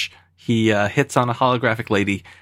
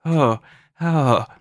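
put-on lightly done stage Irish accent; a pub Irishman offering a dram, half-hearted; mock Irish accent; 2 semitones higher than usual. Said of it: "doing my Irish accent".

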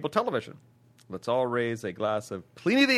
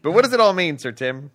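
dramatic announcer question; 5 dB louder, faster than usual. Acted. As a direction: hit WHAT hard, announcer style. Repeats question more dramatically.

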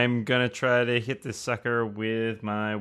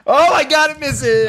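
high, loud burst of disbelief; excited shriek; 9 dB louder than usual. Real, not acted. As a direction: yelp with sudden relief. Enemy attack misses his character.

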